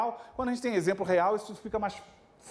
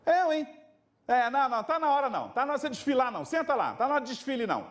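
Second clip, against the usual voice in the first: higher, brisk telling-off of a showing-off pupil; firm teacher scolding; 5 semitones higher, faster than usual. Retold or imitated. Teacher tells Gustavo to sit down: higher, firm mock scolding. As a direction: scold him like a buddy who means it. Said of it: "Eu virava pro Gustavo e falava assim".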